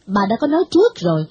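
lightly voiced stern grandmother shaming the girl; stern old lady scolding. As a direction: chide the girl like a strict old matron. Bà Thị scolds Anh Nguyệt.

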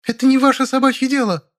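screeching at the neighbours, losing the argument. A narrator's reading. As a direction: screech it defensively. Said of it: "заверещала Зайка".

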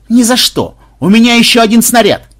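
high, loud protest; stubborn refusal. A narrator's reading. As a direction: refuse at full voice, clinging to a treasure.

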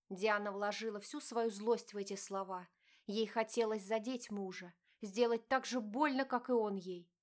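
ordinary delivery, nothing marked

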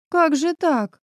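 high gasping question; gasp of dismay. A narrator's reading. Narrator gasps at the broken key, high dismayed gasp. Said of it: "ахнула я".

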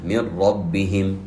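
من ربهم with the nun merged and no humming; slow demo, ra doubled, no ghunna; merge without nasal. Shown as a demonstration. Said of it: "ندغمها من غير غنة".

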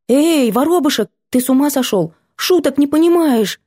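put-on high, protesting girl's voice. Girl resisting as Vanya drags her, protesting. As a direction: push back, half laughing at him.

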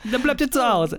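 put-on high Italian-accented German. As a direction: scold like an Italian mayor. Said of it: "Deutsch mit italienischem Akzent".

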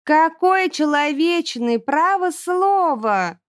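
high, slow sarcastic drawl; mock it scornfully; snorting Erjina. A narrator's reading. Erjina mocking the ogre's humanity, high sarcastic drawl. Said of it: "фыркнула Эрджина".

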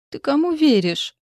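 high, hammed-up hopeless plea; fake doom. A narrator's reading. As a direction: play the martyr, falsely resigned. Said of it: "с фальшивой обречённостью".

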